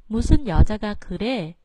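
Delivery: 무, 여 and 그 pitched low, then rising; low phrase starts. Shown as a demonstration. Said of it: "âm thường cho nên xuống giọng".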